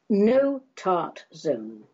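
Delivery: slow, drawn-out title, each word weighted; slow title read. Acted. Reading her poem's title to the audience, slow and grand. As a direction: announce the poem title slowly and grandly.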